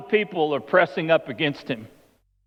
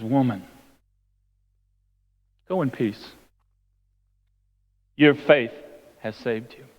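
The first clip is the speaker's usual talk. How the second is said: loving; 4 semitones lower than usual. Acted. Jesus sends the healed woman away in peace, lovingly. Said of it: "again out of love".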